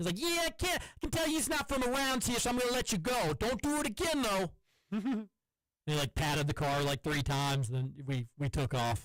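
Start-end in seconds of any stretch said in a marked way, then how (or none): 0.2-4.5 put-on, thick New York accent, much higher. Retelling a traffic cop's words after a red-light stop, thick new york accent. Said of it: "Had the thickest New York accent".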